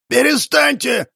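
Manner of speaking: high, slow furious shout; a high drawn-out yell to stop the brawl. A narrator's reading. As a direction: bellow it to break up the fight. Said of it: "заорал он".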